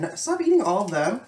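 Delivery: high loud no, stop; half-laughing scold to stop; playful protest. Real, not acted. Stopping partner eating candies.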